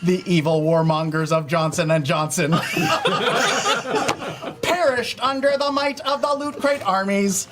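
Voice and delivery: robot voice, stiff and announcer-like; a lightly voiced robot from the future; old speech synthesizer. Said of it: "Sam three thousand".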